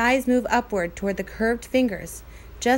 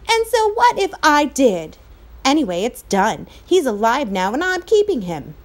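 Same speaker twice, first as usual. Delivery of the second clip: much higher, louder at the start, stubborn; defiant retort; 3 semitones higher, 5 dB louder than usual. Acted. Patrick refusing to give back the cowboy, defiant. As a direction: dig in and refuse. Boys quarreling over cowboy.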